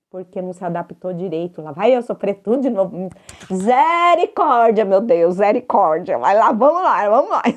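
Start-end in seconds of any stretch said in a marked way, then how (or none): 3.5-6.2 dramatic lament. Real, not acted. Lamenting dental pain.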